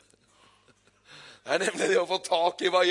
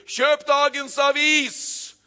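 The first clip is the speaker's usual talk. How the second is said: put-on high, loud, slow newspaper-boy cry; newsboy calling out; 9 semitones higher, 7 dB louder, much slower than usual. Newsboy hawking papers to the street. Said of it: "roper han ut titlen på forsiden".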